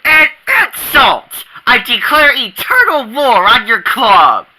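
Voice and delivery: slow, high mock outrage; indignant gasp. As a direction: declare it like a wounded nobleman. Theatrical offense taken.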